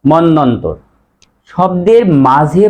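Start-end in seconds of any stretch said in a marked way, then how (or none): 0.0-0.8 মন্বন্তর said monnontor, b silent; correct pronunciation. Shown as a demonstration. Teacher answers own question, n doubled. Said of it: "সঠিক উচ্চারণ কি হবে?".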